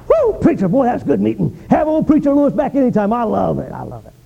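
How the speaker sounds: high whooping praise that fades away; mock the fired-up churchgoer's gush; gushing revival-goer. Churchgoer praising the preacher after revival, hammed-up excitement.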